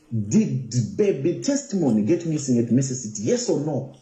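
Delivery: earnest retold questioning. Blogger asking Ruth for the truth, earnest questioning. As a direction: press patiently for a straight answer. Retells pressing Ruth for an answer.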